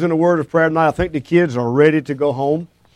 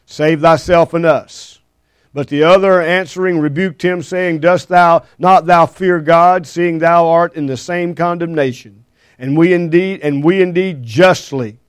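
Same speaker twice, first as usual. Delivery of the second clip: measured King James reading; scripture reading; 2 semitones higher than usual. Acted.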